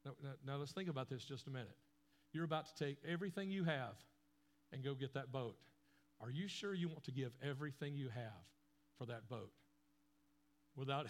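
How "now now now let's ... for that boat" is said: father gently questioning his son's choice; gentle dad. Retold or imitated. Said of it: "And his dad said".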